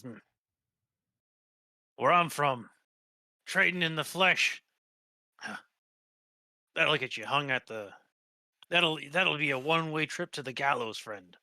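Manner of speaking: a touch of indignation in a sailor's voice; indignant sailor. Acted. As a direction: warn them like an old deckhand, lightly acted. Game master voices the captive sailor.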